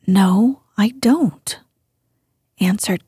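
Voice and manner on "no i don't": sulky reply. Acted. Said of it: "almost sulkily".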